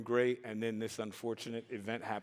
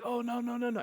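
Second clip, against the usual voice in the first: mock pleading; 11 semitones higher, faster than usual. Begging at the slammed door.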